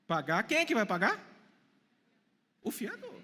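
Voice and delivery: ordinary talk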